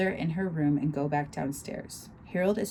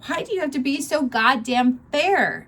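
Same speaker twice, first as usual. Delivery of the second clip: loud, higher angry outburst; shouting; 10 semitones higher, 8 dB louder than usual. Acted. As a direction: hurl it at him, furious. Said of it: "I shout".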